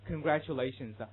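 slow "congratulations" as congra-chu-lations; word-internal ch. Shown as a demonstration. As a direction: model "congratulations" with a clear chu. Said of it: "注意发生这样音变".

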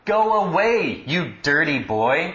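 high, loud acted guard's shout; imitated shout, 'Go away' hit hardest. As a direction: call out sharply as a guard, then ease off. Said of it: "I said he shouted".

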